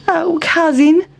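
high-pitched mouse voice; Town Mouse character. A narrator's reading. Town Mouse appealing to his country cousin, high-voiced. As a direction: appeal in a high voice, rising at the end. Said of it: "said Town Mouse".

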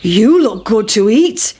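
a hint of a cow; cow's voice. A narrator's reading. Cow wanting to eat the pancake, lightly voiced.

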